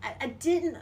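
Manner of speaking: high and fast, owning up. Real, not acted. Confessing, high voice.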